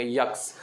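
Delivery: "यक्स" with a y glide before eks; the letter X said as "यक्स"; village pronunciation of X. Retold or imitated. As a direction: rural "यक्स" for X, y sound up front. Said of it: "बोलेंगे".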